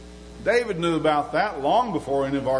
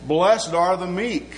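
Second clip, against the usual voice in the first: 1 scripture reading; 2 semitones higher, slower than usual. Acted. Reads scripture in sermon.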